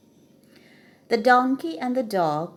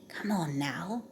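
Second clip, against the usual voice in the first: quiet urging; 6 dB quieter than usual. Acted. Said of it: "said the donkey".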